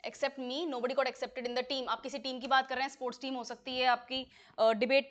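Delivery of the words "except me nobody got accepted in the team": very slow, each word spaced; teacher dictating slowly; slow dictation. Shown as a demonstration. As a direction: read it out slowly for students to copy. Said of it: "slow dictation of example sentence".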